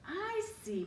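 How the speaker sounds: high mouse squeak. Acted. The mouse realising they are statues, squeaking high. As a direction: squeak it knowingly. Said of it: "Mortimer squeaked".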